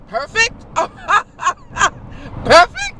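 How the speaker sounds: laughing through the word perfect, high; amused scoffing laughter. Real, not acted. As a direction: crack up in disbelief at perfect. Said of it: "Excuse me while I have a good laugh".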